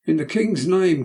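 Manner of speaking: a touch of a hammered-up shout; crowd crying. Acted. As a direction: cry it as the crowd at the door. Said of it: "cried the voices without".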